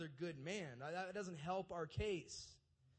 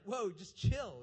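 mock call to calm; 3 semitones higher, 9 dB louder, slower than usual. Angel calming shepherds.

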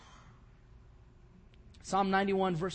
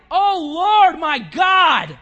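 higher, loud shout to God; shouted cry; 8 semitones higher, 15 dB louder, much slower than usual. Retold or imitated. Elijah alone, shouting to God with all his volume. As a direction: cry out with full lungs. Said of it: "He cried".

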